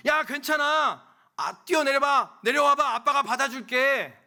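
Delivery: put-on loud, high call up to a scared child; dad calling out. Dad shouting up to his frightened child on the slide, loud and high. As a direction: shout up encouragingly, arms out to catch. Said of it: "라고 이야기하는 거예요".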